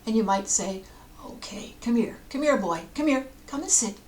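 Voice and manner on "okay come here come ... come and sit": kindly calling a pet over, starting hushed; light, friendly dog-owner coaxing; gentle coaxing. Acted. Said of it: "while speaking gently".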